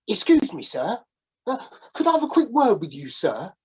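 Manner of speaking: lightly voiced old sailor, wheedling; a hint of a down-on-his-luck sailor sidling up; ingratiating sailor calling from the shadows; shabby old sailor.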